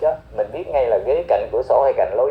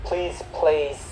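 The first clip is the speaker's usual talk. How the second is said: "please place" drawn out very slowly; slow model phrase; 3 semitones higher, 4 dB quieter than usual. Shown as a demonstration. Teacher modelling the agent's words for learners, very slow. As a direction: spell out "please place" syllable by syllable. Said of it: "teacher models phrase slowly".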